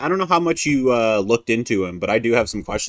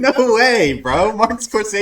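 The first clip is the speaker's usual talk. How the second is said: mock bro voice; 9 semitones higher, 4 dB louder, slower than usual. Jokey bro voice.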